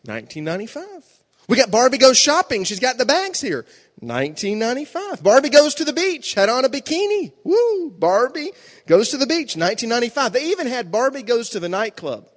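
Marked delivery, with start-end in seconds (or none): 0.1-10.3 excited salesman voice, higher and louder; pushy toy store clerk pitching dolls. Retold or imitated. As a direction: hype up each doll like a pushy clerk. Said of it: "He said".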